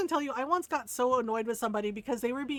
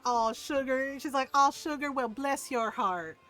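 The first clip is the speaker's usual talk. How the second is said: sweet Southern auntie. Retold or imitated. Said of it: "patted his hand and went".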